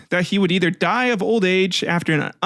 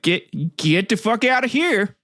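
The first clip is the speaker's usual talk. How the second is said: higher-pitched mock outburst; mock dismissal; 5 semitones higher, slower than usual. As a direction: act out a father throwing his son out. Father banishing son in retold myth.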